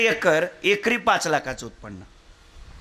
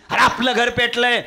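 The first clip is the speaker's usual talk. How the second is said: wailing cry; 5 semitones higher, 4 dB louder than usual. Acted. म्हातारा हसत रडत ओरडतो.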